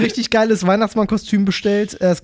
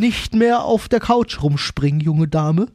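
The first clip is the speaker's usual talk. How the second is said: stern Santa scolding; slower than usual. Retold or imitated.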